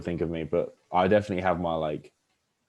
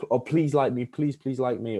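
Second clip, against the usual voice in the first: higher, pleading tone; needy pleading; 5 semitones higher than usual. Shown as a demonstration. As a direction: beg for approval. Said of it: "it's that tonality".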